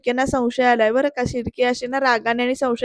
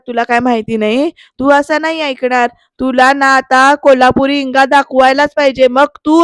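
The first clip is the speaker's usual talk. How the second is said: louder acted threat; threatening; 6 dB louder than usual. Shirke about to slap Vijay, threatening. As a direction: warn him a beating is coming. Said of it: "असं म्हणत ना सडासड दोन कानपाठीत मारतात".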